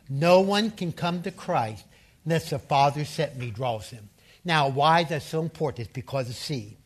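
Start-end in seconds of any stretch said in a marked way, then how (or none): 0.1-4.1 slow unison recital, opening word lifted; congregation recitation. Shown as a demonstration. Preacher leading the church in reciting a verse aloud, slow unison recital. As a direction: lead the room through the verse slowly. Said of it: "Say it with me".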